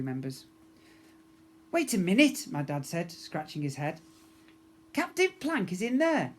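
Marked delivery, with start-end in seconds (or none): 1.7-2.5 dad puzzled. Acted. Dad voiced in story. 4.9-6.3 dad amazed. Acted. Dad voiced in story.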